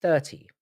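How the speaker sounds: "Thirty" with a clear th and t; careful th. Shown as a demonstration. Streamer practising against the London habit, careful th in "Thirty". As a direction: enunciate the th in "Thirty". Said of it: "I have to stop when I say it".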